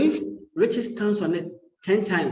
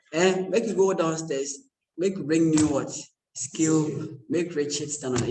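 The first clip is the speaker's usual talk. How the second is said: Pidgin English. Shown as a demonstration. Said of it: "I can speak Pidgin".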